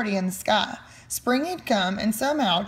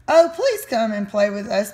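pleading monkeys, a touch louder; begging; 4 dB louder than usual. Acted. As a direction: beg eagerly to play. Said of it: "begged the monkeys".

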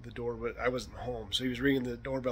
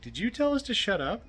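high, raised challenge called over a fence; retold bark at the neighbor, pitched up and louder; barking back; 10 semitones higher, 5 dB louder than usual. Host calls back to his neighbor over the fence, barking. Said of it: "I barked back over the fence".

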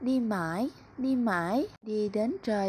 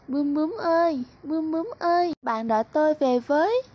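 raised call, a touch higher; lost bunny calling to the butterfly, mildly raised; 6 semitones higher, faster than usual. Acted. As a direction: call after the butterfly as it flies off. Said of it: "gọi to".

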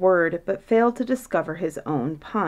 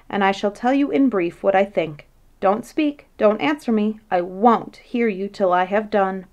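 a bit louder, eager philosopher holding forth; lightly voiced scholar who won't be interrupted; quick and flighty; 3 dB louder than usual. Kopycheck lecturing Humdrum on the princess, quick and flighty. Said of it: "The latter was quick and flighty".

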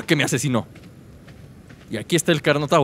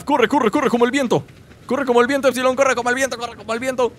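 higher, hurried self-urging to run; excited urging; 5 semitones higher than usual. Real, not acted. Gamer urging his own character to run, excited. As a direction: egg yourself on to run fast. Running from the hyena.

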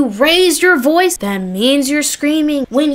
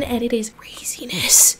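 whisper; 5 dB quieter than usual. Real, not acted. Stunned aside to viewers.

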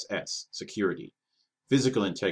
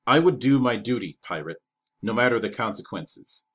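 through chattering teeth; 5 dB louder than usual. Acted. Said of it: "through chattering teeth".

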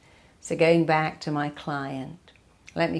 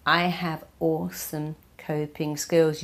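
"awesome coping skills" said level and steady; calm, grounded self-assurance; calm confident affirmation. Shown as a demonstration. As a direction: settle down and state it as a fact. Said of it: "You get to choose".

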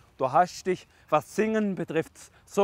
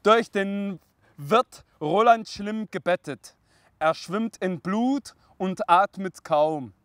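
slow, drawn-out verse; dramatic poem recitation; 3 semitones higher, slower than usual. Acted. Reading Roland's fall to father, slow recitation. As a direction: recite with weighty pauses.

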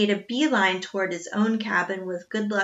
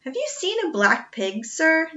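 out of breath; 8 semitones higher than usual. Acted. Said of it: "Jack asked out of breath".

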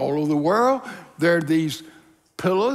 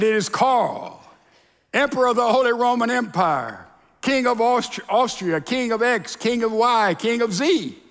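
lightly voiced proud emperor, raised pitch; self-important emperor; 4 semitones higher than usual. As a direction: announce each title with some pomp. Emperor announces titles at heaven's door.

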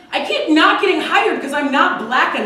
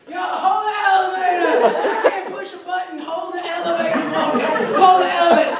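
higher sassy voice; sassy woman with nails; 5 semitones higher than usual. Pretend. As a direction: flaunt the nails while demanding. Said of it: "Really long nails".

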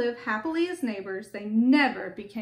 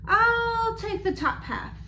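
high, slow, yawning bear; sleepy storybook drawl rising high; 10 semitones higher, slower than usual. A narrator's reading. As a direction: stretch the words through a big acted yawn. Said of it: "Bear said with a yawn".

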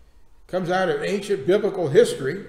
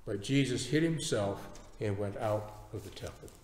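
measured, dramatic Bible reading with long pauses; solemn pulpit reading; scripture reading. Acted. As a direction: read the passage deliberately, giving the quoted speakers weight. Reads scripture aloud.

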